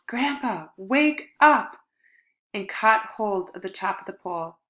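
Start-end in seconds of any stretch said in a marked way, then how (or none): 0.1-1.8 high, loud desperate yell; boy yelling to grandpa at the top of the rope. Acted. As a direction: yell with the last of your strength. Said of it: "I yelled".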